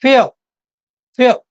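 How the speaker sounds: फ्यो said slowly with a clear y glide, pyoo; demo of few. Shown as a demonstration. Teacher demonstrates few to students, drawing out the y glide. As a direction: stretch फ्यो to let the y sound show. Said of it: "फ्यू में देखेंगे तो आपको य का sound".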